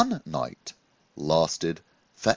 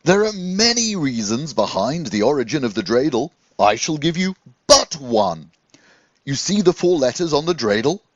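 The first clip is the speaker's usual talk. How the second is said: a hint of a jolly teaching rabbi; lightly voiced wise rabbi; 6 semitones higher, 5 dB louder than usual. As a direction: share a secret with a pupil.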